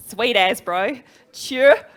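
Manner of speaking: loud, hammed-up Kiwi slang; Kiwi accent. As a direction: belt it out like a proud Kiwi bloke. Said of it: "I'll get fish and chips and six out of the way".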